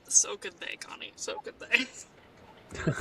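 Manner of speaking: slow, breathy whispered comeback; deadpan whisper. Pretend. Teasing someone about looking it up, slow whisper. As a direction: drop to a dry, slow whisper.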